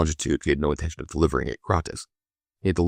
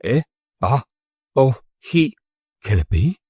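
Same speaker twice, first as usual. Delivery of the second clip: high, startled, louder; surprised exclamation; 7 semitones higher, 4 dB louder, slower than usual. A narrator's reading. Captain recognizing the expected messenger, high and surprised. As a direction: peer in sudden recognition. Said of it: "he exclaimed".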